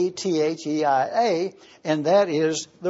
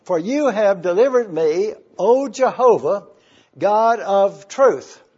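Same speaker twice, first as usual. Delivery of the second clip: reading scripture aloud. Shown as a demonstration. Preacher quoting Jesus' last words on the cross, solemn. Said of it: "When Jesus said".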